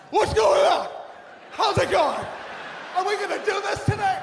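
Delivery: high, loud, hyped-up greeting; over-eager fake cheer shouting across the room; fake positive gym bros. Fake positive class members hyping everyone up. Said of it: "They come into the class".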